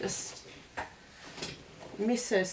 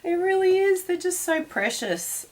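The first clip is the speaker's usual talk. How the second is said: teary voice; 12 semitones higher than usual. Real, not acted. Grieving her late dog.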